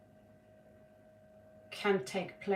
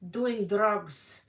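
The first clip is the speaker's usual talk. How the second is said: strict auntie; 3 semitones lower than usual. Pretend. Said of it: "I'm gonna be the, the strict auntie here".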